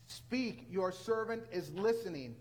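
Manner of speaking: deliberate, spaced-out words; slow, weighty response; slow emphatic repeat. Acted. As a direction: let each word of the answer land. Preacher repeats the line for weight.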